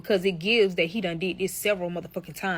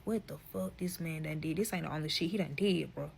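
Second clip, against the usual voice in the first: much softer, under the breath; inner thought; 4 semitones lower, 9 dB quieter than usual. Retold or imitated. Wondering what the husband did, softly to herself. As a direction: say it low to yourself. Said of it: "So I'm like".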